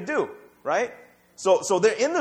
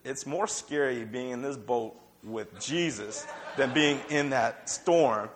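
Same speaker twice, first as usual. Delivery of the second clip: hushed mock fear; 7 semitones lower, 4 dB quieter, slower than usual. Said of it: "They're like".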